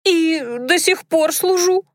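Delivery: put-on high squeaky girl voice. A narrator's reading. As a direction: squeak it out like a mouse. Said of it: "пискнула Дунька".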